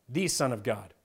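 ordinary delivery

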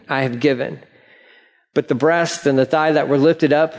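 measured Bible reading; scripture reading. Acted. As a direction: read the passage aloud to the congregation. Reads scripture aloud.

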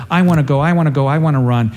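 quick, pleading mock whine; pestering. Ahimaaz begging Joab to let him run, pestering. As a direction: nag like a child who wants to go. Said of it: "he's continuing to pester Joab".

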